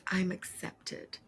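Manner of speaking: soft, almost breathless echo of the guest's words; hushed retelling. Retold or imitated. Host retelling guest's moving answer, hushed and soft. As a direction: repeat her line gently, barely voiced. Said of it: "And then she said".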